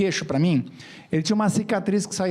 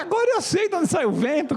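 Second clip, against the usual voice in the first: mock revelation; 8 semitones higher than usual. Punchline about whistling teeth.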